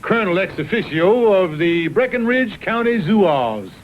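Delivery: grandly formal Southern colonel; pompous sputtering colonel. Acted. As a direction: puff up and announce your titles. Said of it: "Watch the old colonel go into action".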